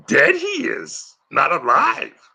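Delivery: high, slow, croaky Yoda. Retold or imitated. Impressionist plays Yoda for the chat, high and slow. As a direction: pitch way up and stretch it like the little green master.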